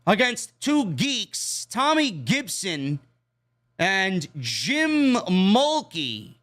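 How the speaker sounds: drawn out, sneering announcer read of the jobbers' names; mocking slow announcer. Real, not acted. Mocking the jobbers' names, slow sneering announcer read. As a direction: stretch the names out with contempt.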